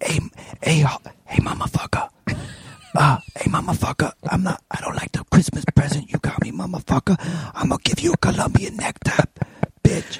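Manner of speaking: put-on angry whisper. Joining in the bit, imitating a whispering angry Cuban woman. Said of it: "Whispering angry Cuban woman".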